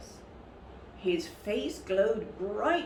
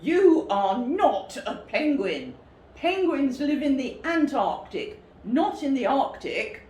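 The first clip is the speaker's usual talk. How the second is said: loud, higher, scolding; angry correction; 6 semitones higher, 6 dB louder than usual. Acted. Presenter crossly corrects the cub's fib. Man angrily corrects cub.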